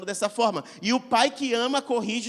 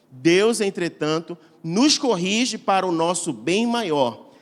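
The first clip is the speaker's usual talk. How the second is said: deliberate Bible reading, slowing at the end; solemn reading of Hebrews; scripture reading. Acted. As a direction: read the verse and slow down on its last words. Reads Hebrews 12:10 aloud.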